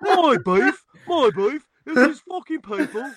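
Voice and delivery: high, loud imitation of a cockney Dick Van Dyke accent. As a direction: ham up the Mary Poppins cockney accent. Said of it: "Dick Van Dyke accent".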